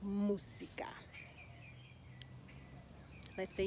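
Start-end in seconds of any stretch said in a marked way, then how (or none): 0.0-0.9 Música with weight on MÚ; teacher's model "Música", U stressed; stress on first syllable. Shown as a demonstration. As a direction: hit MÚ, keep "sica" light in Música. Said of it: "It's on the first syllable".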